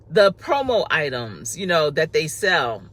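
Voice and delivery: talking while chewing gum. Real, not acted. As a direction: gum in the mouth as she talks. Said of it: "I'm sorry, I'm chewing gum too".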